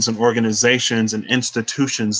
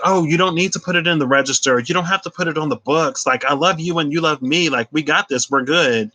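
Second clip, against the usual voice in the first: put-on smitten old man; 4 semitones higher than usual. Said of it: "And he's like".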